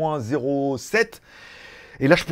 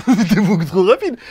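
louder, laughing "rapide" with a rise; 3 semitones higher, 7 dB louder than usual. Real, not acted. Vlogger amused the parcel came so fast, laughing. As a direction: laugh it out in disbelief.

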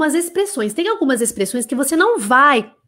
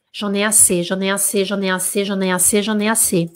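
ordinary talk, nothing marked

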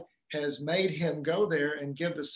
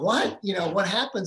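startled dad; 3 semitones higher, 4 dB louder than usual. Retold or imitated. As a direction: snap to attention at bad news. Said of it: "he's like".

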